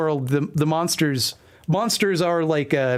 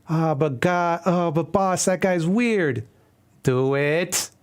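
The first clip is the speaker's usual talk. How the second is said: henchman voice; 3 semitones higher, slower than usual. Acted. Henchman and boss voices, comic.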